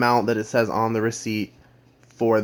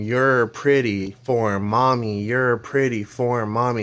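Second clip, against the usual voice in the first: slow, drawn-out mock scream, barely raised; half-hearted crazed screaming, words stretched out; mock madman scream; slower than usual. Madman cutting a captive's hair, slow mock scream. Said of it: "and he's screaming".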